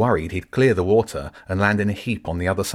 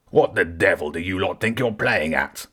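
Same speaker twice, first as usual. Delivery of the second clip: lightly voiced gruff creature; a touch of a growling beast, understated; mild creature roar. Woodland creature scolds intruders, a hint of a roar. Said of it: "the grey-furred creature roared".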